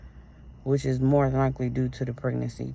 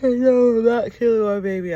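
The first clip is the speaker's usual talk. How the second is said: loud and much higher, a sudden cry of protest; a real, loud cry of protest, pitched way up; real outburst; 9 semitones higher, 10 dB louder than usual. Real, not acted. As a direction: shout it in real anguish, refusing. Sudden outburst defending her baby.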